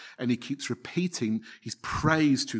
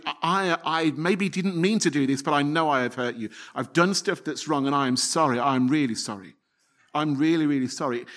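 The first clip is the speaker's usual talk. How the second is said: sincere apology; 2 semitones higher than usual. Pretend. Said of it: "adopt that same posture with God, as in".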